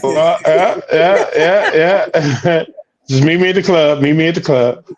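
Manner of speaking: robotic autotune warble; glitchy digital distortion; an autotuned singer's voice. Real, not acted. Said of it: "you sound like an autotuned singer".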